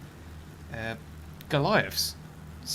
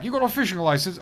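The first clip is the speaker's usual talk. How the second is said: raised, louder questioning official voice; mock British official; 5 semitones higher, 5 dB louder than usual. Streamer acting out a fishing licence check, mock British official. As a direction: demand it like a petty inspector. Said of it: "I think I remember that's like".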